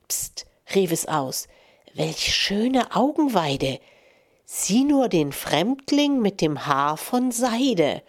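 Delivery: measured storytelling voice, lightly voicing the animals; fable reading. Radio host reading a verse fable to listeners, storyteller voice. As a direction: tell the old verse fable to the radio audience.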